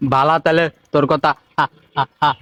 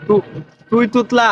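high, incredulous question; a mock-shocked, raised question; mock surprise; 6 semitones higher than usual. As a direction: act shocked, pitched up. Mocking disbelief.

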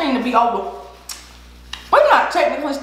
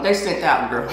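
normal talking voice

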